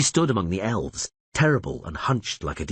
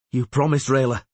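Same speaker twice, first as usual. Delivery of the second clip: pleading reminder; 6 semitones higher, 4 dB louder than usual. A narrator's reading. Vilis pleading with Rayla.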